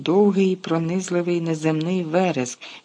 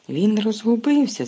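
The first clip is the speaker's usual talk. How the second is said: shouted excitedly; 5 semitones higher than usual. Acted. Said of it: "закричав Люпін".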